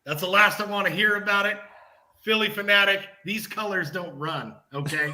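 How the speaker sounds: firm, hammed-up final warning; mock threat. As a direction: lay down the law in mock seriousness. Mock beef callout of mascot.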